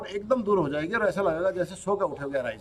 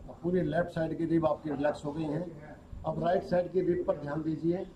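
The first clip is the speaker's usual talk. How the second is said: unhurried yoga nidra instruction, softer than normal talk; guided relaxation; 7 dB quieter than usual. Real, not acted. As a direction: guide them gently through relaxing each body part, with long pauses. (योग निद्रा का शांत निर्देश)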